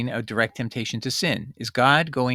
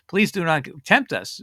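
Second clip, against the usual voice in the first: "please do not tempt us" pitched higher, mock begging; mock pleading prayer; 5 semitones higher than usual. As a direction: pray it like a wry plea, voice up. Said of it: "So don't let".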